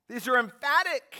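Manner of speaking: high, loud, near-crying proclamation; a rising shout that breaks with feeling; impassioned preaching shout. Acted. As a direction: cry it out from the pulpit. Preaching at full force.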